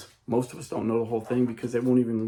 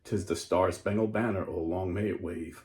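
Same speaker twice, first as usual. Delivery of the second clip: solemn recited reading of the anthem; reading anthem aloud. Acted. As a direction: read the lyrics with reverence. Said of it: "I'm gonna read you".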